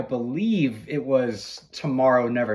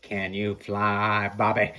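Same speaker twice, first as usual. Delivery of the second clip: slow movie line; 4 semitones lower, slower than usual. Retold or imitated. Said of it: "you do it, you do it".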